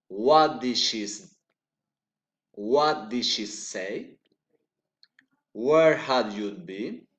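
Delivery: questions swooping up at "say" and "been"; polite rising question. Shown as a demonstration. Teacher showing polite interest, rising tune. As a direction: lift the last word, "say" and "been". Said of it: "recent intonation".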